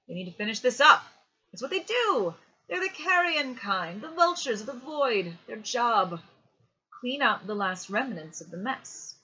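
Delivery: loud, high-pitched, insistent South African voice; sharp South African accent. A narrator's reading. Opal miner pushing the boy to give in, sharp South African accent. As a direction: press the point forcefully with a South African accent. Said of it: "in his sharp South African accent".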